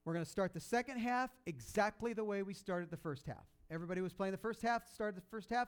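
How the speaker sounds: rally the team in the locker room; coach's pep talk. Retold or imitated. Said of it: "and he says".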